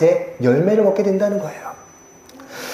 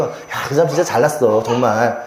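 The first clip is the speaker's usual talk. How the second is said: mocking, lower drop on 정말; sarcastic praise; 5 semitones lower than usual. Shown as a demonstration. Pastor showing the congregation how praise turns sarcastic. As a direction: say 잘났어, 정말 as a sneer, not praise. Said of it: "어투나 억양 때문에 비꼬는 말".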